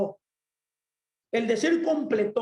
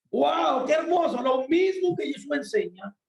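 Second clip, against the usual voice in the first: higher-pitched exclamation of delight; admiring wonder; 4 semitones higher than usual. Real, not acted. Preacher delighting in a rabbinic parallel, admiring wonder. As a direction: marvel at a beautiful discovery.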